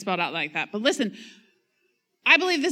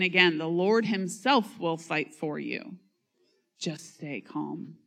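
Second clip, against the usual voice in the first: calm reassurance. Acted. Preacher voicing Moses' reassurance.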